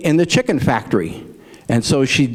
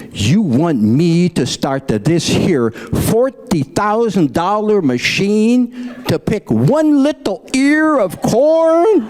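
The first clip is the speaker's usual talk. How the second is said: Lena's retort; 6 semitones higher, slower than usual. Acted.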